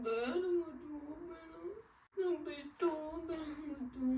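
softly begging through tears; real, tearful plea to stay; tearful pleading. Real, not acted. Wife begs husband not to leave, tearful pleading. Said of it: "ಹತ್ಕೊಂಡ್ ಹತ್ಕೊಂಡ್ ಕಳ್ಸಿದ್ರೆ".

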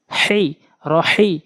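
"হেই, রহি" with a tight Arabic h from mid-throat. Shown as a demonstration. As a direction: squeeze the middle of the throat on each h of "হেই, রহি". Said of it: "হলকের মাঝখান থেকে উচ্চারণ করতে হয়". ("হেই, রহি"-র হা গলার মাঝখান থেকে চেপে)

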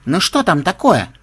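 mildly annoyed demand; displeased. Acted. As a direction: ask it with displeasure. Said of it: "недовольно осведомилась Мелисса".

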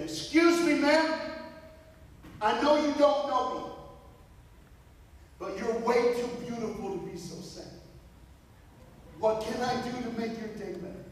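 Vito's eager voice. Retold or imitated. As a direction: play the earnest kid offering help. Vito approaches crying lady politely.

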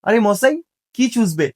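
attempted Kolkata Bengali accent. Shown as a demonstration. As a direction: try a light Kolkata accent. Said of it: "কলকাতার অ্যাকসেন্টে বলা try করলাম".

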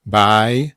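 "Biology" chopped into separate syllables with pauses. Shown as a demonstration. Teacher dictating biology to learners, separated syllables. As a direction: say "Biology" one syllable at a time.

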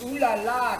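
mock French flourish. Shown as a demonstration. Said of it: "that's in French".

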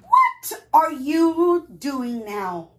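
slow, loud, nosy goose question. Acted. Goose quizzing the polar bear, nosy goose voice. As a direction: pester with a loud, drawn-out question.

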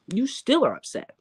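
high, mocking taunt; mocking singsong. Real, not acted. Vlogger taunting a rival for staying upset, high mocking tone.

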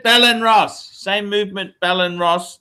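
put-on Indian accent; lightly hammed-up Indian accent. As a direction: keep up the mock-Indian sales pitch. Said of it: "in your best Indian accent".

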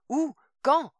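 high panicked shout; cried out. A narrator's reading. Mother screams at Greg for details, panicked shout. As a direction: scream the questions at him. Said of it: "cria la femme".

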